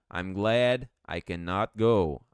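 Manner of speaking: I'm glad I cannot go, each word slow and clear; slow English model. Shown as a demonstration. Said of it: "E ir é go".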